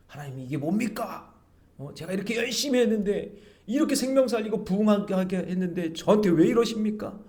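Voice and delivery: high-pitched, pleading outburst; protesting complaint. Retold or imitated. Preacher re-enacting his complaint to God, high agitated protest. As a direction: plead and argue as if wronged. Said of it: "따지고 막 울고".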